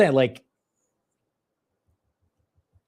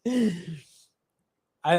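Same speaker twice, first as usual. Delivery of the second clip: normal talking voice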